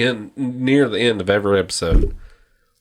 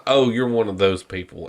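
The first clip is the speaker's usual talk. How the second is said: lower, understated retold retort; dismissive fisherman; 3 semitones lower than usual. Fisherman answering the scolding woman, dismissive. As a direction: imitate an unimpressed man, voice dropped.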